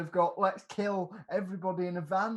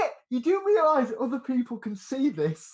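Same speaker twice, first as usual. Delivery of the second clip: higher, louder disbelief through laughter; mock incredulous; 4 semitones higher, 6 dB louder than usual. Answering men plotting publicly on Facebook, mock incredulous. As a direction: act amazed at their stupidity. Acting out reply to posters.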